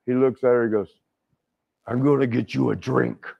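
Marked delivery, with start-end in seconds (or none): 1.9-3.3 lightly voiced wrestler impression; a hint of a famous wrestler's voice; Hulk. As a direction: slip slightly into the big man's voice. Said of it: "You know that voice he is".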